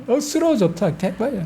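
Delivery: hint of Gyeongsang relish; 경상도 사투리로 억수로 좋다; Gyeongsang dialect. Shown as a demonstration. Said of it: "경상도 말로 하면은".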